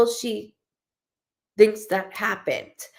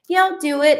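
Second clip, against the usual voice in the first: higher, keen agreement; eager friend; 7 semitones higher, 4 dB louder than usual. Retold or imitated. Imitating the friend who says yes to everything, eager. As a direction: say yes before they finish asking. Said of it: "I'm the friend where it's like".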